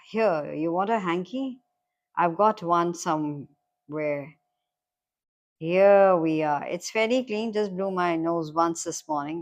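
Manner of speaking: lightly voiced friendly stranger offering help; hint of a matey, casual character; chummy stranger. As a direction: read him as a lightly acted, chummy bloke. Reads the stranger's dialogue.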